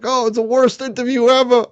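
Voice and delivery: high, put-on whiny voice; mocking whine, pitched high; mocking complainers. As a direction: mimic the haters with a sneer. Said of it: "They were like".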